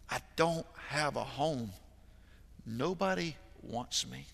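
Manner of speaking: slow, hopeless whimper; quiet mock sob, slowed; imitating a sobbing boy. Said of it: "with how hard he's crying".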